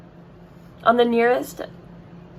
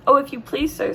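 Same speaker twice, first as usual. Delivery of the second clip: trembling; 6 semitones higher than usual. A narrator's reading. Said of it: "said Edmund, trembling".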